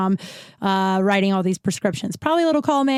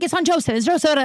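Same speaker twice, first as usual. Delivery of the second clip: dismissive, unhelpful; 7 semitones higher, faster than usual. Retold or imitated. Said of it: "like, not telling me".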